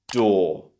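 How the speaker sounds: "door" as DAW; British "door" vowel; daughter's first syllable. Shown as a demonstration. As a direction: model "door" with long aw, no r. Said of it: "first syllable as".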